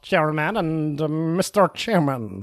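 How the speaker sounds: low, hammy French waiter voice; French accent. Acted. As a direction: put on a thick French accent. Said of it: "I am losing this accent".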